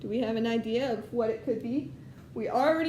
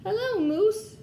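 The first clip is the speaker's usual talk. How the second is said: much higher, chirpy little duck greeting; cheery duck voice; 9 semitones higher, 4 dB louder than usual. Acted. Teacher voicing Duck greeting the farm animals, high cheerful. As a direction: pop up high as a friendly duck.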